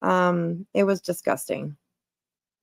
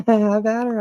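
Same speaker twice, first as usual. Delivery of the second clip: laughing; 2 semitones higher than usual. Real, not acted. Repeats line while laughing.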